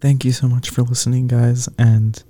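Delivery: flat, even monotone outro. Acted. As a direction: read it dead flat, no pitch movement. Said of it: "in your, uh, newfound monotone voice".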